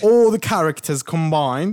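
slow, stretched-out British English; put-on British accent. Host explains his accent as Harry Potter characters, British accent. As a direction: lay the British accent on slowly. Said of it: "This is British accent".

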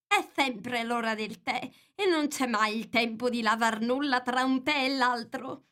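complaining lightly about endless tea; lightly voiced Hatter.

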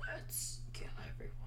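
whispered, very low mock New York accent; upset New Yorker in a menacing whisper. Friend jokes about New York closing out, whispered upset New Yorker accent. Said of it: "That's my New Yorker, uh, uh, upset accent".

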